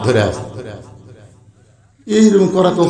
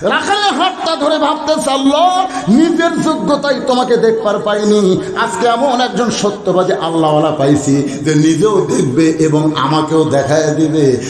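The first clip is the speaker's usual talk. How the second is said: high chanted opening, settling to usual pitch; sermon storytelling; 4 semitones higher than usual. A narrator's reading. Preacher telling of a man holding the shepherd's hand, chanted sermon narration. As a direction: start high and intone, then ease down.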